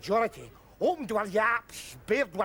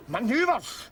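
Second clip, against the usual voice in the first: indignant retort. Acted. Drunk Scot throwing the soldier's excuse back at him in outrage.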